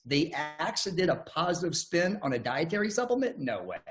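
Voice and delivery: retold sarcastic skepticism. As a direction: scoff as if you don't buy it. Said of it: "I said this sarcastically".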